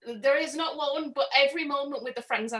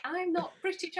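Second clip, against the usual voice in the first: a hint of a put-on American accent, higher; fake American accent; 8 semitones higher than usual. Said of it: "putting on my best ... accent".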